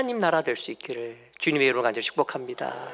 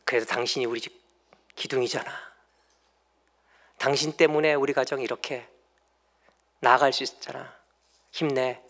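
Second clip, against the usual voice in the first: gentle encouragement; 2 semitones lower than usual. Shown as a demonstration. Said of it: "그냥 한마디 하세요".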